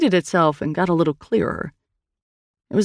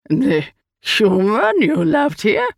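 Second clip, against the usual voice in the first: slow, higher alien voice; strange creature, questioning; 5 semitones higher, slower than usual. Acted. The Eye asks Hand about Perry, slow creature voice. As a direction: ask slowly as an otherworldly being.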